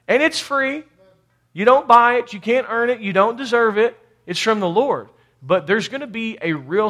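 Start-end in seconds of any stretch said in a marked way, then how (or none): 0.1-5.1 high, punchy preaching in short phrases; emphatic preaching. Real, not acted. Preacher telling the church it is free, emphatic. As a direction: proclaim it to the congregation.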